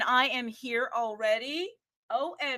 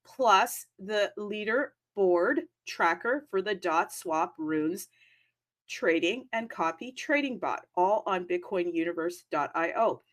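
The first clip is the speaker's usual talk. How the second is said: ad read; 2 semitones lower than usual. Acted. Reads sponsor ad copy.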